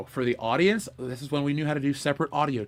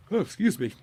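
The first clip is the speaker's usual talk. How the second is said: sleepy after a yawn; 3 semitones higher than usual. Real, not acted. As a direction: still half yawning. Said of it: "I don't know why I'm yawning".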